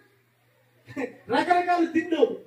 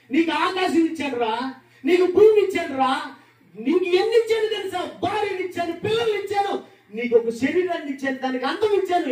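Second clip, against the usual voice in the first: God as grieving father; 4 semitones higher than usual. Acted. God voiced rebuking his child.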